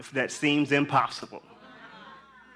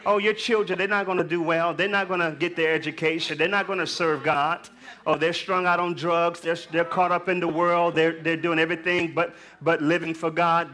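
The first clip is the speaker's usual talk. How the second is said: discouraging devil; 5 semitones higher than usual. Acted. Preacher voices the devil's discouragement.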